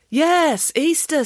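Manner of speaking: put-on high-pitched childlike cheer; high, eager storybook boy; feigned enthusiasm. A narrator's reading. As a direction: chirp a dutiful yes.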